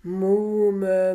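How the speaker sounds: calling out. A narrator's reading. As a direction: call out Muhme to cut her off. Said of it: "aber dann rief er".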